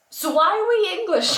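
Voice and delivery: high-pitched incredulous question, laughing after; mock exasperation. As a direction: whine the question in comic protest. Mock protest at being English.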